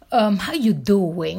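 slow attempt at a New York accent; New York accent try. Shown as a demonstration. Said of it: "I'm trying to get the New York accent".

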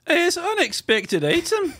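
put-on high, slow Scottish accent. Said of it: "what would it be like in, um, Scotland?".

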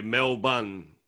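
"Mel Bun" slow, in two separate words; demonstrated pronunciation. Shown as a demonstration. Australian giving a memory trick, slow demonstrated pronunciation. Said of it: "that's a easy way to remember it".

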